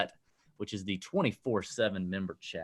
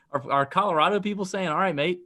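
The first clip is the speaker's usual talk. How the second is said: amused mock question; 7 semitones higher, 4 dB louder than usual. Real, not acted. Mocking the Aussie greeting.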